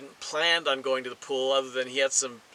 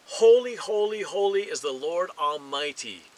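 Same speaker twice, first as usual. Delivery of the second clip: raised, reverent call easing off; 3 semitones higher, 4 dB louder than usual. Acted. Seraphim calling to one another around the throne, calling out. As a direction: proclaim it loudly at first, then settle. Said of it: "they were calling to one another".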